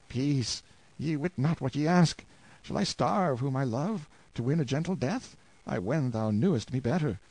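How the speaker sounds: a hint of a weary, tortured husband; lightly voiced prisoner. Tortured prisoner gently refusing his wife, lightly voiced. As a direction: gently rebuke your wife.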